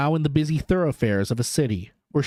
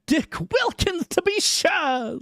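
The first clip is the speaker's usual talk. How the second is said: put-on much higher, slow old man's voice; Scrooge fondly recognizing; 13 semitones higher, slower than usual. A narrator's reading. Scrooge telling the ghost about Dick, high and slow. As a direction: savour the memory slowly.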